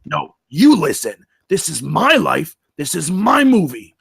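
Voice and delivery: indignant insistence. Acted. Bigfoot asserting control of his movie, indignant. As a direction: stress on you and my, rising.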